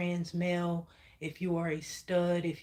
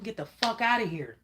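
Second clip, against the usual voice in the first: "Get the fuck outta here" pitched higher and pushed harder; nasty version; 4 semitones higher, 3 dB louder than usual. Pretend. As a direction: get nasty with them, mock tough. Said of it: "if you gotta get nasty with 'em".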